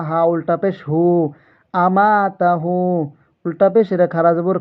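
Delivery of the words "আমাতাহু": আমাতাহু with the হু vowel drawn out for one alif; আমাতাহু, its final হু held one beat; one alif stretch. Shown as a demonstration. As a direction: lengthen the vowel of হু in আমাতাহু, slowly. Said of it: "এক আলিফ টান হবে".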